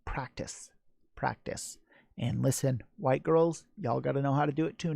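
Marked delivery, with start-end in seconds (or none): 0.0-1.8 soft whispered repeat of Practice, practice. Shown as a demonstration. Host answering how to twerk, in a whisper. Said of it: "that is also the answer to".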